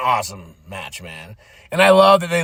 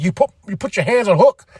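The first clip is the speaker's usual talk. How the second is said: higher, quick mock outrage; Samoa Joe, angry; 5 semitones higher, 3 dB louder, faster than usual. Joe confronting someone over Hook, mock anger. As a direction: imitate an indignant accusation. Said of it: "He's angry".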